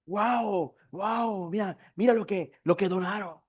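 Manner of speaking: hushed, put-on wowed reaction; mock amazement. Preacher pretending God is wowed by donations, mock amazement. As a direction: play at being impressed, a little softly.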